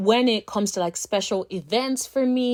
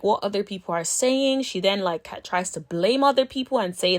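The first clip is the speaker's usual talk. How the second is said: normal talking voice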